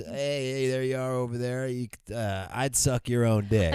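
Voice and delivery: lightly imitated shout-out, lifted in pitch; Simon Rex catchphrase impression. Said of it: "I love that he says".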